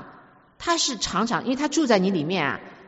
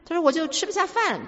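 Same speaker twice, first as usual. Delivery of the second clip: higher-pitched mock wail of complaint; 模仿崩溃诉苦; 9 semitones higher than usual. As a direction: play up a woman falling apart over a trifle. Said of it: "我就崩溃了". (模仿快崩溃的诉苦)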